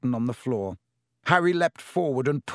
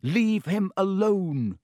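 shout at the snake; 6 semitones higher, slower than usual. A narrator's reading. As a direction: yell without thinking. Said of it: "he had shouted stupidly at the snake".

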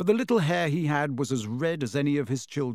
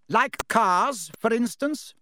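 louder, higher, sharp pointed jab; pointed accusation; 8 semitones higher, 4 dB louder, slower than usual. A narrator's reading. Wife ambushes her husband about the flying car, pointed. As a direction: catch him out with a barbed question.

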